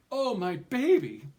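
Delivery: high, loud motherly cry. A narrator's reading. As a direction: gush over her baby in a high, loud voice. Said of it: "she cried".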